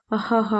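hammed-up evil cackle, kept light; a playful fake villain laugh; mock villain laugh. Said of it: "వికటహాసం చేసి". (సరదాగా నటించిన villain నవ్వు)

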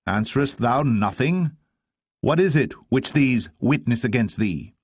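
high, demanding questions; interrogating high priest. Acted. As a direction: press the silent prisoner for an answer.

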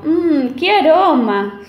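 mild sighing over a smell; dreamy sigh. Acted. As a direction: sigh happily at the aroma. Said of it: "suspiró el chanchito".

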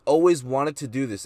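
mock disbelief, a step down from the friend's pitch; incredulous echo. Narrator answering his drunk friend on the railing, retold in mild disbelief. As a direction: throw the friend's words back, incredulous. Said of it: "I was like".

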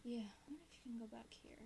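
fast unvoiced whisper. Real, not acted. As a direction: whisper it to yourself quickly. Exploring quietly.

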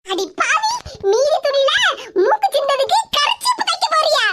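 mock outrage at the daughter-in-law; outraged mother-in-law.

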